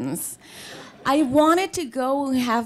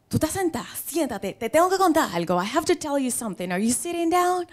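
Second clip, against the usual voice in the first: lightly voiced mother, higher and urgent; mother breaking big news, pitched up; excited mother; 5 semitones higher, much faster than usual. Mother calling her daughter with news, excited.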